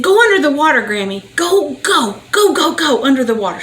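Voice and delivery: put-on high, loud, eager kid begging grandma; excited child. Granddaughter begging Grammy to go underwater, excited high child voice. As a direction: pipe up like an excited four-year-old. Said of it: "She's so excited".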